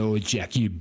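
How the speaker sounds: slow, exasperated Cockney devil; English accent. Acted. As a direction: drag out the curse in an English accent. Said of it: "our evil folk have English accents".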